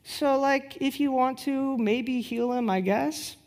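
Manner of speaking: limp, unsure little prayer, trailing off; a mock half-hearted prayer. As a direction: pray as if you barely believe it. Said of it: "the least faith-filled prayer".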